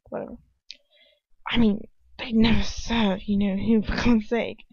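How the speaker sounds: put-on protesting in an English accent; lightly exasperated English-accented character; Ron, English accent. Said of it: "it has to have the English accent".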